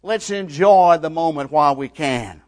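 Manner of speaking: high-pitched taunting of a supposed king; mocking ridicule. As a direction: jeer loudly with mock homage. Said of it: "when they ridicule him".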